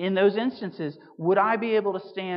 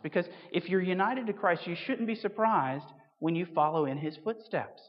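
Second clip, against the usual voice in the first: ordinary talk, nothing marked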